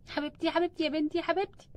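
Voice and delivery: soft, soothing concern; tender worry. Acted. Mother soothing daughter in labour, tender. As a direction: comfort her softly.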